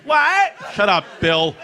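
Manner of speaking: sudden loud what; surprised shout. Retold or imitated. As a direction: blurt it out shocked. Startled retort in bit.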